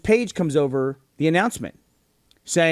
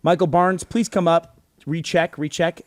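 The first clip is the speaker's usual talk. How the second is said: mock airport page; 3 semitones higher, slower than usual. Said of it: "Then they paged again".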